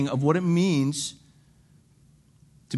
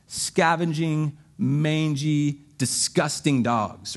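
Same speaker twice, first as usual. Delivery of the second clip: disgusted; much slower than usual. Shown as a demonstration. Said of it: "That's the way he says dogs".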